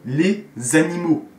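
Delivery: "Les animaux" with the s linked as a z; liaison. Shown as a demonstration. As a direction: slowly link "Les animaux" as lé-zanimo. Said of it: "On fait la liaison".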